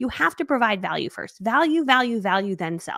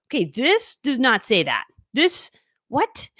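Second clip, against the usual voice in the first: hammed-up blunt critique, rising in pitch on "what"; mock appalled at what you see; blunt disbelief; 3 semitones higher, slower than usual. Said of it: "I didn't say it to her like that".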